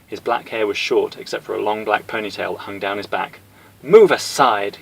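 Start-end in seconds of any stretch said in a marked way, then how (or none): 3.8-4.8 loud firm command; order. Acted. Cammy ordering Honda aside, loud command. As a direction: order him out of the way. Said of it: "Cammy ordered".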